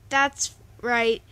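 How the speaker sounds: loud triumphant shout; screaming. Acted. Jack yelling after the fleeing bully, loud. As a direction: yell it as they flee. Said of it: "Jack screamed".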